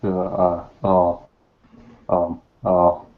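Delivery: हल्की सी ओबामा की नकल, रुक-रुक कर; अटकते हुए नेता की हल्की नकल; Obama impression. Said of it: "You sound more like a soft voice redneck than Obama".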